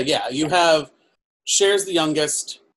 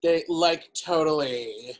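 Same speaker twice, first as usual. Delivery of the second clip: put-on Valley Girl accent; 4 dB quieter, slower than usual. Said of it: "it's a Valley Girl accent".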